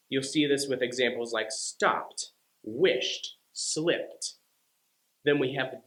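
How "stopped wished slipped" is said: "stopped," "wished," "slipped." each ending in a sharp t. Shown as a demonstration. Teacher giving the T ending examples. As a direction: end each word on a crisp t. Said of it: "T E D endings".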